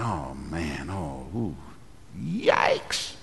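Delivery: cringe under your breath, squeaking on the last word; dismayed cringe. Retold or imitated. Pastor reacting to an unbiblical testimony, dismayed.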